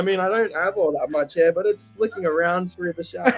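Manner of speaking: giggling through the words; laughing. Real, not acted. Singer telling of shower dancing, giggling. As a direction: let a laugh break the line.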